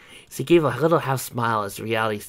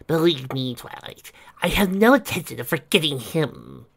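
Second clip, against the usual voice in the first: dark cheer; 6 semitones higher than usual. A narrator's reading. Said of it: "with a dark cheer in her voice".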